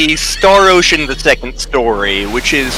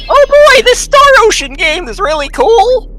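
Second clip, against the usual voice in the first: excited; 4 dB louder than usual. Retold or imitated.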